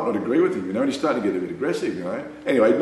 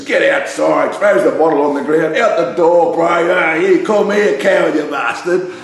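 retold drunken shout, higher and louder; angry challenge; 6 semitones higher, 6 dB louder than usual. Drunk young racer calling the teller outside, shouting. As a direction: bark it like a mate spoiling for a fight.

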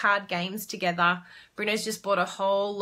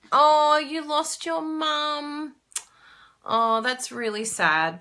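slow, sympathetic; drawn-out sympathy, higher; 6 semitones higher, 3 dB louder, slower than usual. Real, not acted. Reading a viewer's sad news, slow sympathy.

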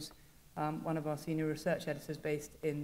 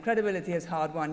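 louder New Zealand take on credibility; New Zealand accent; 7 dB louder than usual. Retold or imitated. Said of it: "New Zealand accent".

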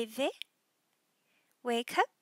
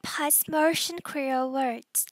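whispering; 4 dB louder than usual. Acted. Opening title, whispered.

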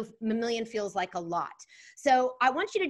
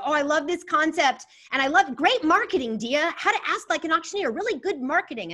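excited; 4 semitones higher, 5 dB louder than usual. Retold or imitated. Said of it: "Somebody said".

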